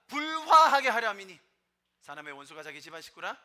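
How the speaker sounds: loud, weighty reading of scripture, slowed at the start; forceful scripture reading. Acted. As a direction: proclaim each verse to the crowd. (성경을 힘차게 낭독)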